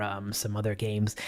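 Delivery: dropping to a hushed whisper; whispered aside. Retold or imitated. Host whispering the game list to his guest, hushed. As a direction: whisper it like a secret offer. Offering the guest other games.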